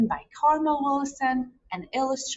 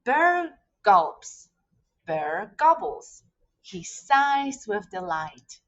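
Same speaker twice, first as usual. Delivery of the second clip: lively picture-book read-aloud; reading to children. Acted. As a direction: tell it like a bedtime story to kids.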